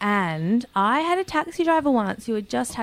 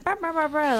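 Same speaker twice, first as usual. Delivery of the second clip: bobblehead noise; 6 semitones higher, 4 dB quieter than usual. Retold or imitated. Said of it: "they're like".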